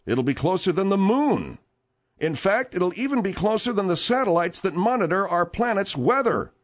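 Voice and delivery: lively newsreader delivery; news read. Acted. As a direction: read out the asteroid story to listeners. Reads a news story.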